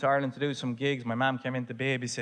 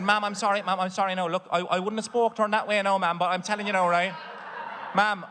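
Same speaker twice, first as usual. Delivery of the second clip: pleading son; 4 semitones higher than usual. Retold or imitated. Placating his mother on phone.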